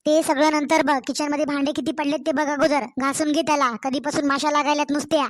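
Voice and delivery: curt commanding scold; bossy order. Acted. Mother-in-law orders her daughter-in-law to the kitchen, bossy scold.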